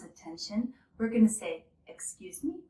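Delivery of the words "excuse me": "Excuse me" rising high at the end; rising intonation. Shown as a demonstration. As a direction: lift "me" upward like a polite question. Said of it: "with a rising intonation".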